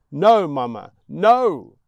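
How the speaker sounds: put-on loud, high boy crying out; child's shout. Boy refuses mother, crying out.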